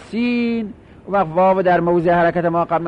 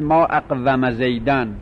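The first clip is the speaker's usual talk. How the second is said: drawn out; 4 semitones lower, slower than usual. Shown as a demonstration. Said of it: "میگید".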